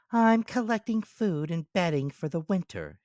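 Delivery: high squeaky ant character. Acted. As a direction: voice the ant as small and sensible. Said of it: "she said".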